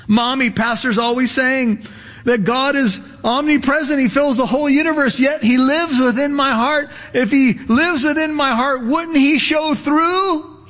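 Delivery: put-on curious little girl asking her mommy. Little girl asking mommy about God in her heart, lightly childlike.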